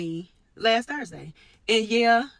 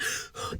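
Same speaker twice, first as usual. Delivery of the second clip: audible demonstrated deep inhale; demonstrating a deep breath; 7 dB quieter than usual. Shown as a demonstration. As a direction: draw in a big breath, as for a test. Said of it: "take a deep breath in".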